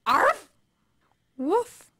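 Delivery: short tentative dog bark. Acted. Actor trying the barking on request, tentative barks. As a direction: give a small clipped bark. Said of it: "Try the barking?".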